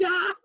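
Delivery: high-pitched imitated laughing cry; mock gleeful whoop. Two friends dancing and laughing, imitated high whoop. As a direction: let out a high, giddy "ah". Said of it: "and they're laughing".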